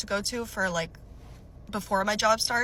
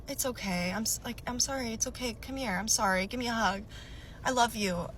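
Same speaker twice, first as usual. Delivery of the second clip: softer, soothing apology; imitating a suddenly conciliatory boyfriend; apologetic; 4 dB quieter than usual. Boyfriend makes up after yelling at girlfriend, apologetic. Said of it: "He's, like, apologetic".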